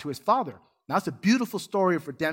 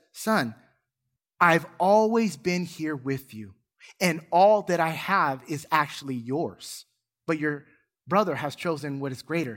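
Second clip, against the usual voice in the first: tender father. Retold or imitated. A hint of a gentle father calming his son.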